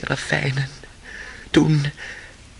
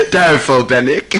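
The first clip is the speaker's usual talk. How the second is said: wild laughing boast; mad laughter; 4 semitones higher than usual. Acted. Feverish Ivan laughing wildly while telling Alyosha of the devil. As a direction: cackle at his own devil.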